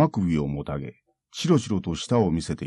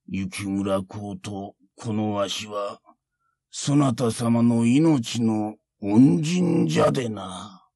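put-on a calm teasing old monk; creaky wise old man; slower than usual. Monk mocks samurai.

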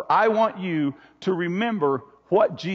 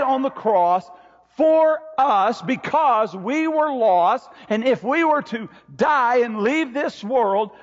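emphatic preaching; 3 semitones higher, slower than usual. Real, not acted.

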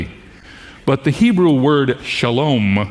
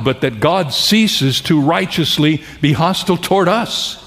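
raised pitch, emphatic sermon delivery; impassioned preaching; 4 semitones higher than usual. Real, not acted. Preacher tells congregation sin is paid for, impassioned preaching. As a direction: preach it with building conviction, pitch lifted. Preacher builds through gospel message.

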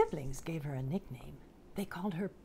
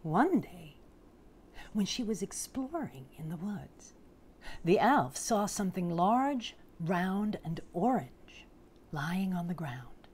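picture-book storytelling, unhurried pauses; storybook narration. A narrator's reading. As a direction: read it to small children, savouring the big words. Reads picture book aloud.

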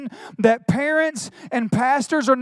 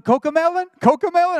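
little son asking; 6 semitones higher, faster than usual. Retold or imitated. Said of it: "Solomon comes up".

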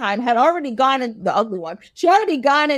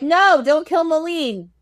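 drawn-out, higher-pitched cry to stop; mock urgent plea; 4 semitones higher, slower than usual. King's party halting the execution, mock urgent plea. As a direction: plead slowly and high, play-acting alarm.

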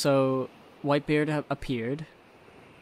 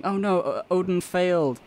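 mock lament; 5 semitones higher than usual. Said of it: "they're all saying".

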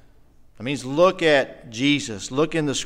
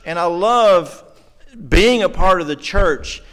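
slow, louder, each "I love" pressed out with real feeling; emotional declarations; 6 dB louder, slower than usual. Real, not acted. Preacher telling the congregation what he loves, slow, loud and deeply moved. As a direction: pour out real emotion, one slow line at a time. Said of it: "I'm sorry to get emotional".

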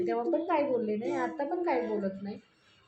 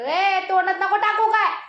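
loud, high sudden scold; sharp scold; 10 semitones higher, 12 dB louder than usual. Retold or imitated. Mother scolding the child at the plate, loud and high. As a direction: snap at the child to stop.

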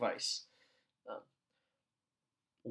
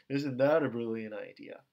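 low-pitched mock praise; sarcastic put-down; 5 semitones lower than usual. Groupmate bullying you with rhetoric, sarcastic. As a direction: belittle with tone alone. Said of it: "the tone of their voice".

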